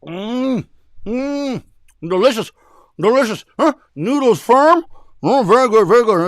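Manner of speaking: loud slurping praise of "delicious"; delighted tasting. Acted. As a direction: savour every bite out loud. Customer savouring noodles.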